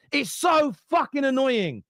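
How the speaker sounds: rattled. Real, not acted. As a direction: vent real frustration at the fans. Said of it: "And yes, I'm rattled".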